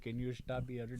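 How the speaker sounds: soft breathy voice right at the ear; close whisper. Retold or imitated. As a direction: lean in and murmur it. Retelling passenger's close whisper.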